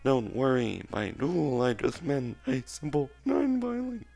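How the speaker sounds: robot voice. Acted. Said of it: "keep this voice up".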